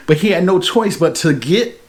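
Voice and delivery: wet, spitty speech; talking with too much saliva; spitting while talking. Real, not acted. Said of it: "Man, I'm really spitting out here".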